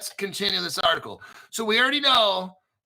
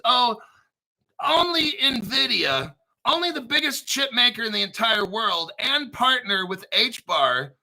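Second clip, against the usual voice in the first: sarcastic; 4 semitones higher than usual. Real, not acted. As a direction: play it down with heavy irony. Sarcastic understatement of big partner.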